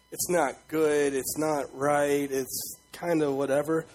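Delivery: slow, dismissive hedging; mock shrug. Preacher mimicking people who downplay sin, slow and dismissive. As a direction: drag it out like a shrug. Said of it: "We, like".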